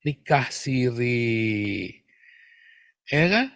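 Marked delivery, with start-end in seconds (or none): 0.1-1.9 slow, drawn-out mock-innocent excuse; mock euphemism. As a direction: imitate someone dodging the blunt word. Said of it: "Menghindari kata itu kan".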